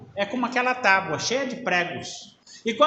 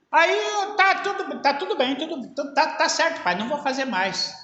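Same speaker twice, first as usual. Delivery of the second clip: voiced child; 6 semitones higher than usual. Son answers father in parable.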